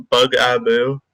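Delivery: "Bug Abu" as two words, BUG then AH-boo; correct pronunciation. Shown as a demonstration. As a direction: say "Bug Abu" split, Bug stressed. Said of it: "But I'm using Bug".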